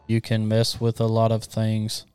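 slow, flat, lifeless line; monotone voice. Shown as a demonstration. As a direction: read it dead flat and slow. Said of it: "the monotone Christmas line game".

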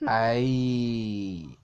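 long, drawn-out "ay" of fright; frightened cry. A narrator's reading. Emily shudders at the bear, drawn-out frightened cry. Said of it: "امیلی به خودش لرزید و گفت".

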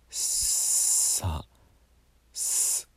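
さ and す breathed out as pure hiss, no voice; voiceless friction on さ, す, no vowel; friction consonant demo. Shown as a demonstration. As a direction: let the air hiss through the tongue gap on さ and す. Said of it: "擦れて出るような音ですね".

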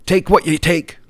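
high, sing-song parody of online crowds; mocking internet people. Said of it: "people are all over the internet".

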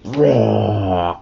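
long, drawn-out storybook roar; mock ape roar. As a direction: give a playful gorilla roar.

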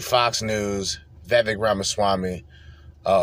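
ordinary talk, nothing marked

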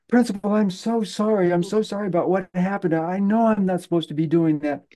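put-on high, rushed child's apology; apologetic little boy. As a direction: beg the principal's forgiveness like a small boy. Kid apologizing to principal.

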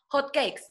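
"hot cakes" drawn out slowly, English-style; mimicked English pronunciation. Guest mimicking host's whitexican speech, "hot cakes" slowly in English. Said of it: "tú sabes que tú dices".

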